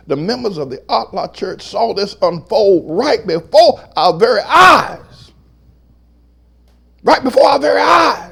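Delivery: rising testimony that breaks into a high shout; full-force preaching. Real, not acted. Pastor testifying to what members saw, full-force preaching. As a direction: build up and shout the closing phrase.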